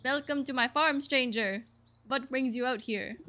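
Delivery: put-on farmer with a loose French accent; attempted French accent. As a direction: welcome them in a rough French accent. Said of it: "is this a French accent?".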